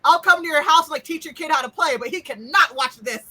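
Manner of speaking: emphatic retold refusal. Retelling his firm refusal to friend.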